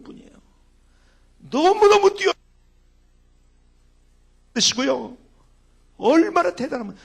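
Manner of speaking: loud, rising sermon praise; swelling preacher's voice, high and loud; preaching at full force. Acted. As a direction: proclaim her gifts to the congregation. Preaching about mother's gifts.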